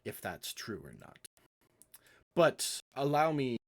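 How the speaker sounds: a hint of a courtly cat charming them; understated Puss in Boots charm; Puss in Boots manner. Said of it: "A very Puss in Boots type demeanor".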